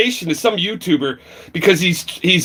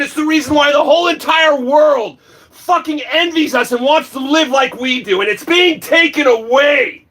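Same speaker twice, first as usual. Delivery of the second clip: angry shouting; 8 semitones higher than usual. Real, not acted. Ranting to viewers about freedom of choice, angry shout. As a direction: rail against them, voice high and raised. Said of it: "This is my rant".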